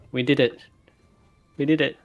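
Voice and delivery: laughing triumph. Acted. Kai on seeing the restored armor, laughing in triumph. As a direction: break into a laugh of victory. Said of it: "I start laughing".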